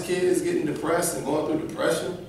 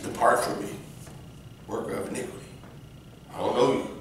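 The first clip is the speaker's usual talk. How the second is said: hushed judgment; 4 semitones lower, 7 dB quieter, faster than usual. Retold or imitated. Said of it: "you're like".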